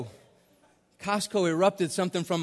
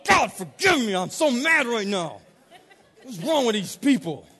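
angry; 3 semitones higher than usual. Retold or imitated. Mad driver complains to God while driving away, angry. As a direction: start with a shout, keep fuming in mock exasperation. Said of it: "I said it angry".

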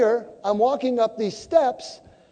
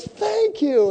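a high, surprised thank you; grateful high thanks; 10 semitones higher than usual. Retold or imitated. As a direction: chirp it out with delight. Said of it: "And she goes".

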